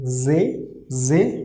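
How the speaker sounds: ze said as zeh with a voiced z; syllable demo. Shown as a demonstration. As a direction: say ze as a short zeh. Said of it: "overall pronunciation will be".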